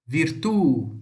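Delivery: Italian "virtù", last syllable strong; final-syllable stress. Shown as a demonstration. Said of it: "Sempre a última sílaba mais forte". ("virtù" com a última sílaba forte)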